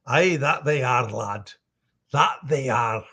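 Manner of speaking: easy, relaxed Scottish brogue; Scottish accent. Shown as a demonstration. Voice actor telling fans accents are fun, relaxed Scottish accent. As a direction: agree like a genial Scot. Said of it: "Scottish accents are fun".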